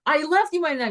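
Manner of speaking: mock screaming protest. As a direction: protest hotly as a retold yell. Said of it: "He's screaming, he's burning up".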